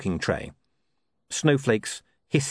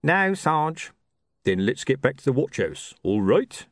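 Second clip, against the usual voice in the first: higher-pitched watchman talking to his sergeant; lightly voiced watchman, pitched up; watchman character; 5 semitones higher, slower than usual.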